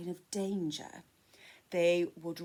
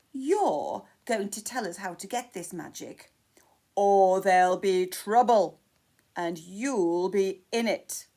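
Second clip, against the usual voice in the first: louder menacing threat; threatening king; 10 dB louder than usual. Acted. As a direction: lean over Jack and threaten him.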